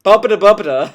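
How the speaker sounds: bouncy fake-Italian gibberish; mock Italian accent. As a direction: parody how Italians talk, lightly. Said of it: "that's how Italians talk".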